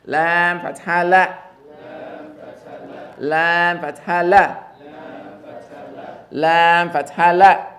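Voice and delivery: slow, drawn-out model recitation; teacher drilling slowly; slow spelling drill. Shown as a demonstration. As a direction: spell it slowly for the class to repeat. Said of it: "Don't say like the English la".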